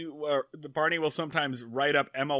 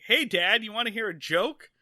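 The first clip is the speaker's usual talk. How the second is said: Opie; 5 semitones higher than usual. Retold or imitated. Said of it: "he's like".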